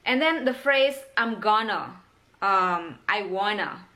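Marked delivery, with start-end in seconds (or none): 1.2-2.0 'I'm gonna' as 'um gonna'; casual reduced 'I'm gonna'; reduction. Shown as a demonstration. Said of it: "itu semua adalah reduction". 3.1-3.8 'I wanna' linked, with no t; casual blended 'I wanna'; reduction. Shown as a demonstration. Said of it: "itu semua adalah reduction".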